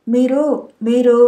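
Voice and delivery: a touch of fear, words half-formed; frightened, indistinct. A narrator's reading. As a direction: stammer it out, still scared from the dream. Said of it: "బెదురుతున్న కళ్ళతో అస్పష్టంగా". (భయంతో అస్పష్టంగా, తడబడుతూ)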